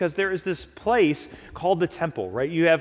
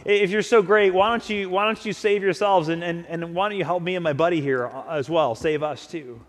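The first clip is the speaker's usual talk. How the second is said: loud, jeering taunt; dying criminal jeering at Jesus, mocking; 3 dB louder than usual. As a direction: sneer at Jesus from the cross. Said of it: "he starts mocking him too".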